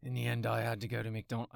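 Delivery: tentative attempt at an English accent; failed English accent. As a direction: try an English accent, badly. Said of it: "I can't do an English accent".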